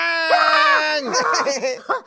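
high loud startled yelp; startled shriek. Acted. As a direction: shriek from the scare. Startled cry from Mauli.

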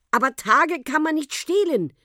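high, loud protest; crying out. A narrator's reading. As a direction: call it out as an objection. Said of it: "rief Henriette".

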